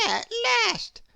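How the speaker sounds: high, loud relieved exclamation; relieved cry. Acted. Hatter finally getting the new hat, high relieved cry. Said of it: "heaving a sigh of relief".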